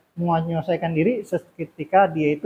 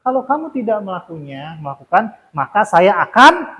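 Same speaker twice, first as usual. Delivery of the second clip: demonstrating a punishing teacher's threat, only slightly raised; mildly raised tone. Shown as a demonstration. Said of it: "nah, itu dengan nada tinggi". (nada agak tinggi, menirukan guru penghukum)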